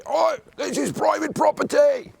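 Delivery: high, slow, put-on British accent; mock British accent. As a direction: play a prim Briton in a British accent. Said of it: "That's a British accent".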